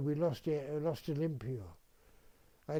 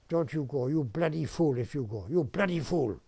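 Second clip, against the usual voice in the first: mild mock scolding in Italian accent; imitated angry outburst. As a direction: play the exasperated Italian telling someone off. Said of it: "stormed off".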